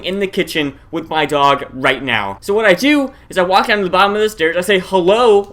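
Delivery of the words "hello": raised, insistent call-out; repeated call. Retold or imitated. Retelling the last call from the bottom of the stairs, insistent call. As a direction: call out to whoever is hiding. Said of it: "one more time".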